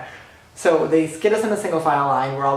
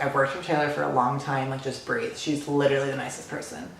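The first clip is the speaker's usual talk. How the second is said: calm reassurance; 5 dB quieter than usual. Retold or imitated. Security guy calming nervous fan.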